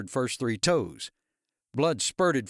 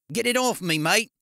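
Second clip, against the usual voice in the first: pained yell; 9 semitones higher, 5 dB louder than usual. A narrator's reading. Darren pleading under fallen chair.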